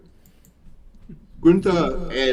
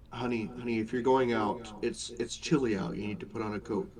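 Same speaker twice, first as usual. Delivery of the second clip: soft parent voice; 7 dB quieter, faster than usual. Acted. GM voicing worried parent.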